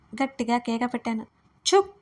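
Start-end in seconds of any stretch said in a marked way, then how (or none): 1.7-1.9 loud scolding shush; a loud scolding shh; sharp scolding hush. A narrator's reading. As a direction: snap a stern hush. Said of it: "మరోసారి గట్టిగా కసిరాడు".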